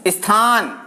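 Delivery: स्थान said as इस्थान with a leading i; prothetic i sound. Shown as a demonstration. Teacher demonstrating the wrong i-sound pronunciation. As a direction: open स्थान with a short i before the s. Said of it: "यहां भी ई की ध्वनि का आभास हो रहा है".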